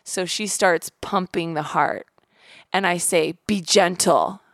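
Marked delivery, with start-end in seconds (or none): 3.4-4.4 firm, a bit louder, stern; a hint of a stern order; stern warning. Mother warning the nurse during resuscitation, mildly stern. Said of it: "like, really sternly".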